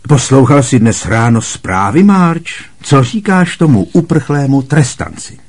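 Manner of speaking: loud, high hurried question; Uncle Vernon. A narrator's reading. Vernon changing the subject with Marge, loud and hurried. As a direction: steer the talk away quickly.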